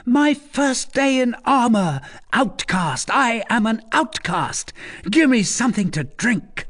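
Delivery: high, boastful youth showing off; cocky, exultant young braggart; young scamp. A narrator's reading. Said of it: "The voice of the young scamp".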